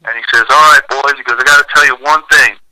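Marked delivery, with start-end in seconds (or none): 0.5-1.1 lightly imitated North Carolina accent. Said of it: "that great North Carolina accent". 1.4-2.6 lightly imitated North Carolina coach; North Carolina accent. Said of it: "that great North Carolina accent".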